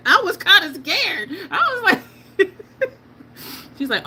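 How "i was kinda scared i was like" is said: laughing through the words, loud and high. Real, not acted. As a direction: crack up while admitting fear. Laughing while retelling fright.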